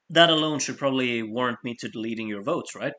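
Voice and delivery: talking through hiccups; hiccuping mid sentence. Real, not acted. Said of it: "Sorry, I got the hiccups now".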